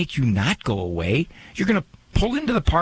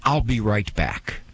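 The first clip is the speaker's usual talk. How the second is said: radio host sign-off; 4 semitones lower, slower than usual. Retold or imitated. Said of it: "rarely do I say".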